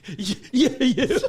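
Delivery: high, loud, stuttered hail; imitated accusing shout. Stranger recognising the naked comedian, imitated accusing shout. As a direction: build to a loud, pointed call.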